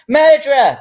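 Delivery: high, loud shriek of murderer; shout. A narrator's reading. Old woman shrieks at the man, high and loud. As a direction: scream the accusation. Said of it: "the woman shouted".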